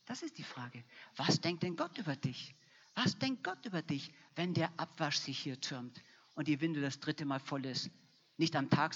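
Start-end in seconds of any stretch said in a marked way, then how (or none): 3.0-4.1 higher, pressing question. Shown as a demonstration. Preacher pressing the congregation with a higher repeat. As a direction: lift the repeat up high, stress Gott.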